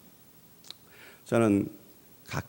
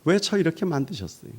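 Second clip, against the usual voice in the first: high whiny complaint to God; complaining to God; 12 semitones higher, 7 dB louder than usual. Pretend. 외모를 두고 하나님께 불평하는 사람, 높고 징징대는 투정. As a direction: whine at God about your looks. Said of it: "마음속에 불평이 있는 거예요".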